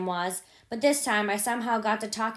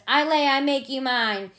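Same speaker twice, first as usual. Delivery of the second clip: boiling mad threat; 4 semitones higher, 4 dB louder than usual. Retold or imitated. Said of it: "I was a bilin'".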